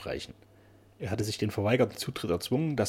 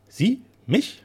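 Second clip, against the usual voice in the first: much higher, contemptuous disbelief; scornful; 12 semitones higher, 7 dB louder than usual. Acted. Painter scoffing at the keeper's threat, contemptuous. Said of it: "fragte Otto geringschätzend".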